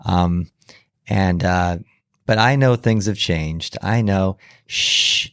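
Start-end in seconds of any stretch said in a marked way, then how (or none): 4.7-5.3 library whisper. Shown as a demonstration. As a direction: hush like a librarian. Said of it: "use your library voices".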